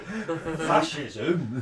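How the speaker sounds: laughing broad northern English word; mock northern accent. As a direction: hosts mocking Alan Moore's quote in a comic northern accent. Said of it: "in that accent".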